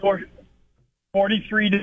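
choppy phone line cutting out; words dropping on a bad connection; radio breaking up. Real, not acted. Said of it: "you're cutting out".

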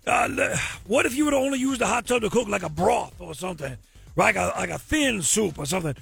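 lightly put-on Cajun man voice; bad Cajun accent, hammed up. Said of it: "my very bad Cajun man impersonation".

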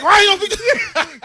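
high, loud mock yell at the driver; Trump supporter rant. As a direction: bellow it like an angry bigot. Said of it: "I start talking like a Trump supporter".

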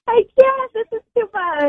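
high, laughing in disbelief; prank reveal laughing. Real, not acted. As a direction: laugh it off after being fooled.

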